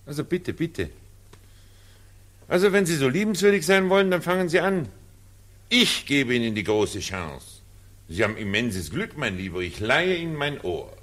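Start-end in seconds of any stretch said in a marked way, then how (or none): 0.1-7.6 high, sing-song, sarcastic politeness; mock him with exaggerated courtesy; high, sneering invitation to begin; mocking impatience.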